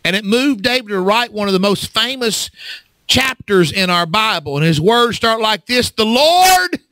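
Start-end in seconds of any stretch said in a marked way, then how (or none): 5.9-6.8 dramatic quote. Acted. Preacher quoting Psalm dramatically.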